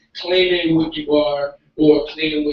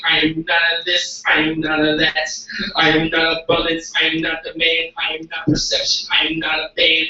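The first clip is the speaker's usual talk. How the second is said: steady monotone litany, each line on one level note; spoken word poem. Acted. Poet reciting negative affirmations to a live audience, monotone spoken word. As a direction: chant it as a measured, insistent list.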